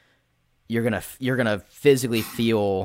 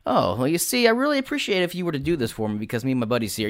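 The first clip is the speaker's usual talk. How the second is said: in-character persuasion voice; 4 semitones higher, faster than usual. Shown as a demonstration. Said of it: "I'm gonna talk in character".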